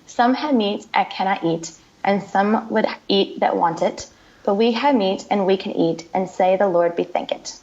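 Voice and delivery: a modest attempt at a Scottish accent, reciting; light Scottish accent. Shown as a demonstration. Guest reciting the Selkirk Grace to the host, in a mild Scottish accent. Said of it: "my Scottish accent, not so great".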